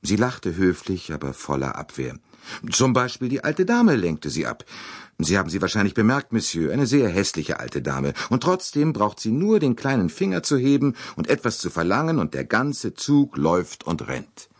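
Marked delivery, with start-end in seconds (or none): 2.7-14.5 higher, livelier young woman lightly voiced; lightly voiced Mary Debenham; young lady's voice. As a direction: play the proud young lady answering the detective. Mary Debenham speaking to Poirot.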